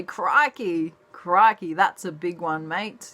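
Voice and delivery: lightly imitated Australian wildlife man; Steve Irwin. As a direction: punch it out like an excitable Aussie croc wrestler. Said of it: "he used to say".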